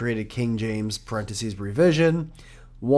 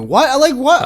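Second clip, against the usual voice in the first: surprised; 12 semitones higher, 9 dB louder than usual. Real, not acted. Disbelief at friend's sudden agreement.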